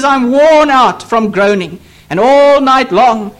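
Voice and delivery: slow, drawn-out lament; weary lament. Retold or imitated. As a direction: recite the psalmist's groaning slowly, word by word. Psalmist's weary lament read out.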